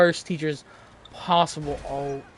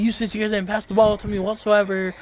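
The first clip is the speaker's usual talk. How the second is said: higher, exasperated mock tirade; imitated yelling; 6 semitones higher, 4 dB louder than usual. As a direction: rant it like an aggrieved teammate. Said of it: "yelling at us".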